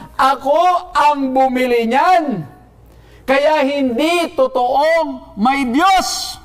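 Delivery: high, slow, crowing challenge; acted mocking challenge, pitched high; triumphant confrontation. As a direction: play a gloating neighbour, drawing the words out. Neighbour confronts the praying woman.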